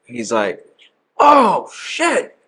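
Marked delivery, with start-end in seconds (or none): 1.2-2.4 very high mock London accent; put-on London accent. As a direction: pitch it way up as an imitated Londoner. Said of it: "You gotta hit him with the accent".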